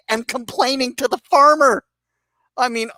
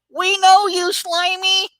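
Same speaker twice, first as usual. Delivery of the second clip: higher mocking call of a stranger; mock yell from a stranger; 9 semitones higher, slower than usual. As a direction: shout it like a nosy stranger, lightly. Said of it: "and yelled at you".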